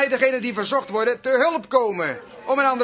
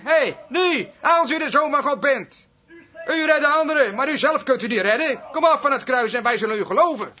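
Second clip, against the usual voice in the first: raised, goading voice of retold hecklers; mock challenge; 2 semitones higher than usual. Scoffers daring Jesus to come off the cross, retold taunt. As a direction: call out a taunt, quickening at the end.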